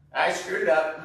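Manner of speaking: frustrated outburst. Real, not acted. Nail cut too short, dog bleeds.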